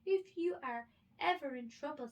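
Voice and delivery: high, loud mouse promise; a tiny mouse, earnest; squeaky mouse. A narrator's reading.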